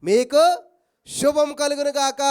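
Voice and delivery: loud, solemn blessing; God's blessing. Acted. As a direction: proclaim it like God's own word. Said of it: "ఏమంటున్నాడు తెలుసా?".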